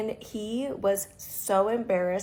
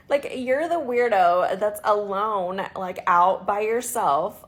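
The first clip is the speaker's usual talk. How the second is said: louder and slow, telling him off; scolding; 7 dB louder, slower than usual. Real, not acted. To the man who insulted her, a slow loud scolding. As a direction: drag each word out as a rebuke.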